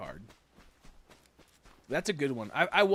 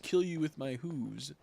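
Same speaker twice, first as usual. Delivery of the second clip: slow, menacing moose; slower than usual. Pretend. Streamer voicing a moose threatening his enemy, slow and menacing. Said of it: "Moose nose".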